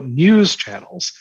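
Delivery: slow, pointed scare quotes on "news channels"; drawn-out sceptical "news channels"; ironic air quotes. Real, not acted. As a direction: say "news channels" slowly as if it barely deserves the name. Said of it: "again, quote unquote".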